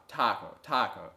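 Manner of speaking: TA-co, TA-co, even triplet pulse; emphasis on ta. Shown as a demonstration. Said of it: "articulating for the quarter note triplet is taco".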